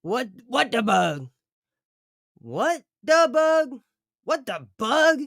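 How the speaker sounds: name said in high, loud, silly voices; playful variations. Shown as a demonstration. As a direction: toss the name out in different funny ways. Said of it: "it doesn't matter which way you say it".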